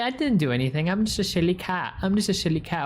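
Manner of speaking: cat protesting it did nothing; silly cat voice. Retold or imitated. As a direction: play the cat pleading innocence. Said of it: "She's like".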